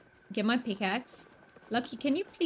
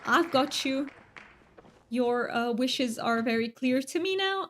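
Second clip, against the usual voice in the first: a horrendous mock British accent; 3 semitones higher than usual. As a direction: ham up a bad British accent, just for funsies. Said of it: "It is a British accent".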